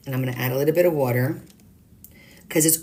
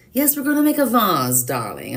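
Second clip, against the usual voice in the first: posh voice; 3 semitones higher than usual. Pretend. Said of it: "I'm gonna talk like this".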